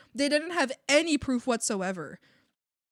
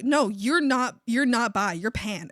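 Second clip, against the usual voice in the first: loud mock insistence; insistent contradiction; 6 dB louder, slower than usual. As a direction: act out the roommate correcting you. Roommate's side of acted quarrel.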